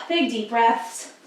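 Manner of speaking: soft, slow, breathy cue; calm. Real, not acted. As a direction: ease them into slow breathing.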